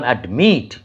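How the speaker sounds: অ্যাডমিট with strong মিট; অ্যাডমিট, light first syllable, stressed মিট; stress on last syllable. Shown as a demonstration. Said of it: "যদি শেষের যে সিলেবলটা".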